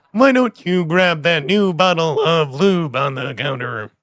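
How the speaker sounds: lightly robotic text-to-speech voice; flat synthesized speech voice; Stephen Hawking voice. Pretend. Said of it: "He's a bit more nasal".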